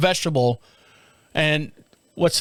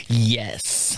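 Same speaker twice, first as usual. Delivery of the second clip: evil chuckle; 6 semitones lower than usual. Pretend. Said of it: "rubbing my hands like an evil".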